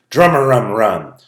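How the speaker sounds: lively rhyming read-aloud; story narration. A narrator's reading. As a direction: read it like a picture book to kids.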